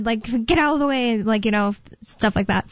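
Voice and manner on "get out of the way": mock-angry demand, not truly shouted; retold mad yell. Imitating an angry driver telling a pedestrian to move, mildly mad. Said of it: "actually mad".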